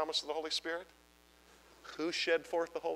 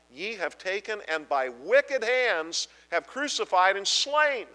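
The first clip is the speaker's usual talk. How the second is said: building preaching climax; 3 semitones higher, 5 dB louder, slower than usual. Acted. Preacher reading crucifixion climax.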